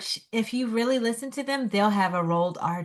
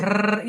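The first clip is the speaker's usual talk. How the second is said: rolled R trill. Shown as a demonstration. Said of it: "You can't do that?".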